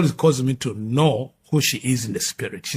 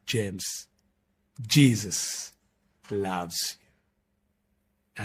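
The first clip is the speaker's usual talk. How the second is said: soft, slightly lowered, gentle quote; tender retold words; 4 semitones lower, 4 dB quieter, much slower than usual. Girl to James as she hugs him, tender. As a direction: pause softly between the name and the message.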